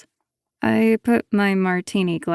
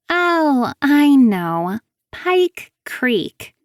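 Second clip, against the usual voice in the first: bright, pleased reveal; spring the name like a trap; triumphant; 7 semitones higher, 5 dB louder, much slower than usual. Acted.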